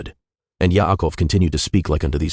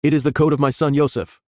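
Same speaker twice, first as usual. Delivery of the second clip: much higher, a cry of grief; weeping cry; 10 semitones higher than usual. A narrator's reading. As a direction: recognise the coat and cry out high. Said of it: "cried out with a loud and weeping voice".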